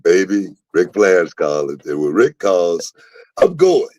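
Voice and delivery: retold excited. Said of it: "I told Charmel, I was like".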